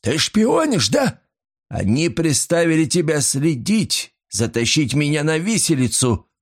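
a cornered man lashing out; panicked accusation. A narrator's reading. Terrified master accuses the maid of spying, frantic.

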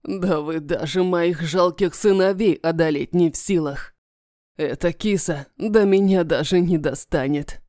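low, contemptuous villain sneer; taunting dragon voice. Acted. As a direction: sneer down at the weak.

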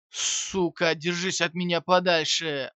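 loud, wild, furious shout; frantic yell. Acted. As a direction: scream it like a man losing his mind. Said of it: "безумно заорал Кармон". (безумный крик)

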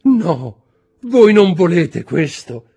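very high, loud, drawn-out pleading; desperate cry. A narrator's reading. Wife refusing her husband's demand, crying out. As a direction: wail the refusal at full voice. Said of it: "gridò".

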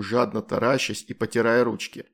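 plain reading voice

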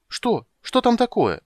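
high, anxious and eager; fret, voice jumping up. Acted. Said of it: "забеспокоился Тасельхов".

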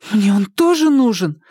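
refuse, holding on to it; protesting. A narrator's reading. Polina refuses Makar, clinging to the key, protesting. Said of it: "запротестовала Полина".

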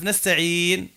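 "نستعين" with long ee, closing on a bare N; stop with sukun. Shown as a demonstration. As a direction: slowly draw out "نستعين" and stop on a vowelless N. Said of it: "كيفاش توقف عندها؟".

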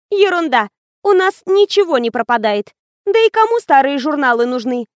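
dismissive. Acted. Вера отмахивается от опасений.

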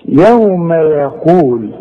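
tajweed recitation, slow and drawn out. Shown as a demonstration. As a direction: recite it slowly with measured madd. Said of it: "شوف". (تلاوة بطيئة بالمد)

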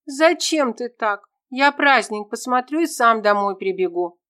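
put-on boy shouting at his father with the whip. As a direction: cry out at the unfair beating. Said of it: "закричал Кенхо".

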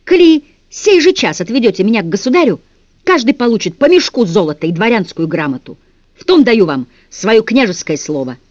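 put-on boy prince offering the guards gold, loud; princely promise. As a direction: give your royal word grandly.

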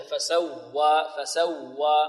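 slow "فسوى" pressing on the doubled waw; stressed doubled waw. Shown as a demonstration. Teacher shows nabr, pressure on waw in "فسوى". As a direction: lean into the ww of فسوى, fa-saw-waa. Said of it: "العلماء يقولون فيها نبر، والنبر هو ضغطة".

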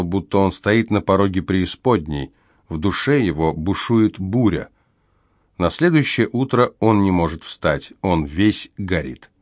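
ordinary delivery

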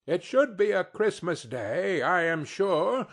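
a touch of an indignant mother; scornful wife. Acted. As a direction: spit out each insult. Mrs Cratchit scolds about Scrooge.

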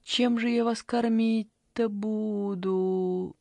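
slow, sorrowful worry; grieving. Acted. Granny laments, slow and sorrowful. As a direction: lament about feeding them. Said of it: "загоревала бабушка".

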